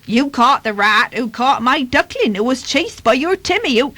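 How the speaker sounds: put-on duck rattling on; Dorothy Duck. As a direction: prattle on like a quacking duck. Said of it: "replied Dorothy Duck".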